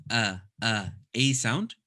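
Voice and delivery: glottal a, caught in the throat; hamza sound. Shown as a demonstration. Teacher modelling the hamza sound. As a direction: say a with a catch at the bottom of the throat. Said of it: "actually a A sound".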